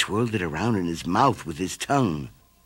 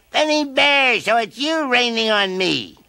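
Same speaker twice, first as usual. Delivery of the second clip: high, louder surprised call; surprised caterpillar; 13 semitones higher, 5 dB louder than usual. A narrator's reading. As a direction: discover the crying bear. Caterpillar finds bear.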